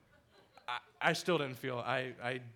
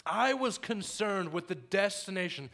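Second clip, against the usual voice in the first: building emphasis; 6 semitones higher, 7 dB louder than usual. Real, not acted.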